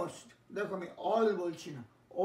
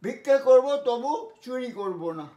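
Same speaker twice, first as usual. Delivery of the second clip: slow, louder, declaiming example line; emphatic example sentence; 3 semitones higher, 7 dB louder than usual. Shown as a demonstration. Teacher declaims an example sentence for the class, slow and emphatic. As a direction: proclaim it like a vow, slowly. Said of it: "বলে না".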